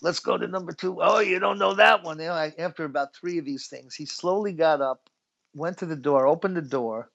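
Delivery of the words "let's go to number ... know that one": put-on German accent. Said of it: "he had this thick German accent".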